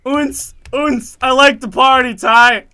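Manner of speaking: loud, high club-beat chant; hammed-up partying, thumping out the beat; mock party animal. Mimics party beat and attendant.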